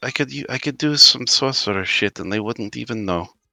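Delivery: muttering under breath. Voicing a game character thirty feet away, saying this under his breath. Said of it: "saying this under his breath".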